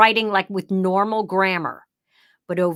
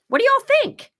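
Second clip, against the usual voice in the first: excited; 6 dB louder than usual. Real, not acted. Playful question to viewers.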